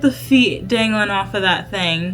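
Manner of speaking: laughing amazement. Real, not acted. Showing jumbo plush.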